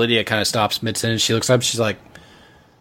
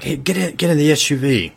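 higher, louder urgent shout; higher urgent yell; 7 semitones higher, 3 dB louder than usual. Acted. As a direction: bark the order over the rotors. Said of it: "he's yelling again".

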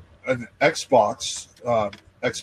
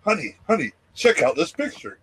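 put-on giddy child; 5 semitones higher than usual. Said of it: "like a giddy little child".

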